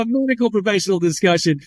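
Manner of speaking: ironic laugh. Real, not acted.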